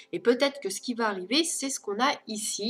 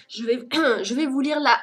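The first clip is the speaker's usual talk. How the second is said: throat catching, clearing it mid-sentence; swallowed the wrong way; 3 semitones higher, 6 dB louder than usual. Real, not acted. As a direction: talk through a drink gone down wrong. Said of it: "j'ai avalé de travers".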